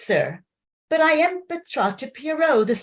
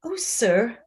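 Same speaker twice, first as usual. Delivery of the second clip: shy whisper; 2 semitones lower than usual. Acted. Shy peasant girl flattered.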